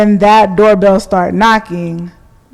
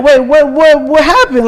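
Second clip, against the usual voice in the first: surprised; 8 semitones higher, 5 dB louder than usual. Retold or imitated. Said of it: "I'm like".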